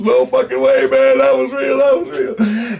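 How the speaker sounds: hammed-up friend who has just seen a UFO; imitating excited friend. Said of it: "he flipped out".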